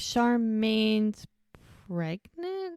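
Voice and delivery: a mock shocked question that jumps high; shocked disbelief. Mel hearing from Hope about the baby, shocked. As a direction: imitate Mel stunned by the baby news.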